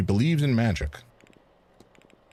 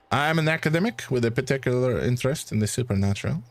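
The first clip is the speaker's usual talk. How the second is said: light French accent, lightly voiced; a hint of a French gentleman; understated French-accented reply; 2 semitones higher than usual. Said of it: "it's gonna be a struggle for me to keep this accent".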